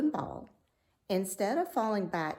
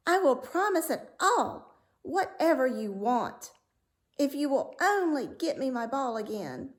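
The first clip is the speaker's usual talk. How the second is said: high, louder hasty promise; eager princess; 6 semitones higher, 3 dB louder than usual. A narrator's reading. Princess hastily promising the frog, high and eager. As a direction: promise anything, rushing. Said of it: "she answered".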